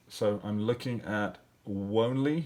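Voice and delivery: "wonly" said with a long o, rising to test it; wrong reading. Shown as a demonstration. Teacher testing a wrong pronunciation aloud. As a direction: try "wonly" aloud as a rejected sound.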